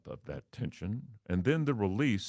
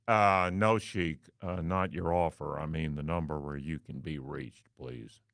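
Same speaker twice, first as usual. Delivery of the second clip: lower, unhurried and businesslike; a manager who is calmly unfazed; cool manager; 4 semitones lower than usual. Retold or imitated. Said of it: "still cool".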